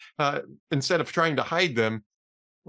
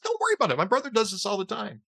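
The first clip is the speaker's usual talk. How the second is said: much higher carefree driver voice; breezy driver; 4 semitones higher than usual. Acted. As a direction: toss it off like nothing's wrong.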